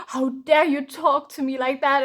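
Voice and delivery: big gasp, then indignant outburst; mock offended. Anpu scolding her for using his title, mock offended. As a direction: act out an affronted god's gasp and scolding. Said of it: "he was literally offended".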